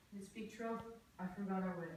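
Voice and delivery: ordinary talk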